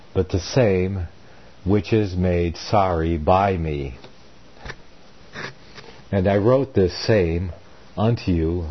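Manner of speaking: deliberate Bible reading in short, weighted phrases; formal, measured pulpit reading; scripture reading. A narrator's reading. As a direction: read the epistle aloud with firm emphasis. Reads scripture aloud amid own commentary.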